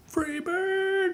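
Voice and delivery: very high, thin falsetto holler; drawn-out squeaky shout, kept soft; mock yell. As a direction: fake a distant yell in falsetto. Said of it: "He's yelling".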